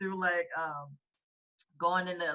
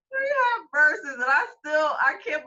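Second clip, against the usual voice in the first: laughing; 8 semitones higher, 6 dB louder than usual. Real, not acted. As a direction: talk through laughter. Laughing while recalling song.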